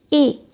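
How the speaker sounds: ए drawn out loud and clear as a long vowel; isolated vowel demo. Shown as a demonstration. Teacher to students, sounding out the vowel, loud and long. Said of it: "यहाँ ए का sound".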